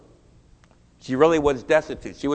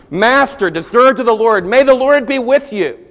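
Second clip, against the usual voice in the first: high, loud call across the fields; workers' hearty, raised-voice greeting; 7 semitones higher, 9 dB louder than usual. Retold or imitated. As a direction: hail the boss from far off. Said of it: "they called out to him".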